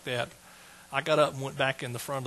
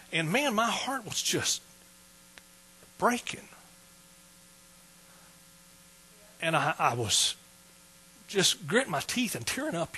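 higher, halting, choked up; fighting back tears; 4 semitones higher than usual. Real, not acted. Preacher telling his calling to church, fighting tears. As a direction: hold back crying between long pauses. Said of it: "so determined to be able to tell that without crying".

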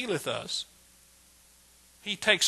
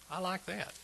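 ordinary talk, nothing marked

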